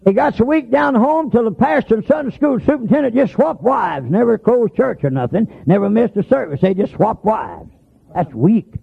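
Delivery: high-pitched preaching cadence. Real, not acted. Preacher telling church about weak folks, high preaching. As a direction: pitch it high, falling at each phrase end.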